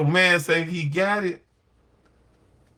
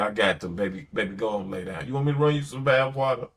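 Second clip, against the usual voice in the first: soothing wife; 4 semitones lower, faster than usual. Pretend. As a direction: ease her into resting.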